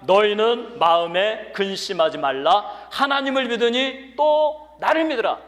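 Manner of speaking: loud, slow scripture reading rising in pitch; preaching. Acted. Preacher leads the church reading verse one, loud preaching. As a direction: call the verse out for all to join.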